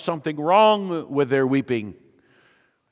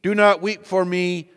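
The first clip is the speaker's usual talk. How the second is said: earnest preaching; 3 semitones higher than usual. Acted. Preacher voicing Jesus to his flock, solemn. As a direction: preach the quote with weight.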